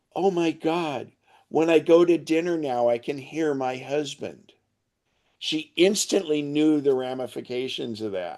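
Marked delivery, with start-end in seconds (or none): 0.2-4.6 mock tearful, overcome exclamation. Retelling a customer's words after she heard through her phone: imitating someone tearful. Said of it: "she was tearful and bawling her eyes out".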